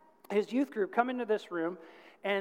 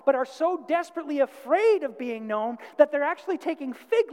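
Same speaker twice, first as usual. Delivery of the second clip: fervent preaching; 6 semitones higher, 5 dB louder than usual. Real, not acted. Preaches with rising fervour.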